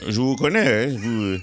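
put-on improvised Haitian accent, hesitant start. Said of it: "jaser avec un accent haïtien ou en créole". (accent haïtien joué)

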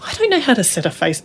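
mock despair at an absurd instruction; exasperated protest. Woman protesting to God in the shower, high and exasperated.

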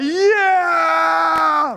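high, loud pretend whoop; mock cheer. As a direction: whoop like a proud parent. Parents cheering tiny hit.

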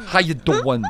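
New York catchphrase with dropped g; Joey from Friends. Acted. Host practising after caller's correction, Joey impression. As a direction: copy a New York doo-in. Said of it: "You know, it's like".

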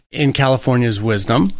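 dry, mocking praise; sarcastic. Real, not acted. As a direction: say it with an ironic edge. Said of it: "that's sarcasm".

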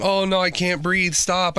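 a hint of a whiny suspect; mocking whine. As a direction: imitate the suspect whining. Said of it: "starts whining and saying".

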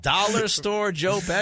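high, loud disbelief; incredulous. Real, not acted. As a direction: repeat the insult like you can't believe it. Repeats the insult in disbelief.

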